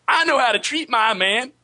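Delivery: high, sassy put-on Black woman voice; African American accent. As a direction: redo the sassy line on request. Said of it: "Can we hear just the last half of that again?".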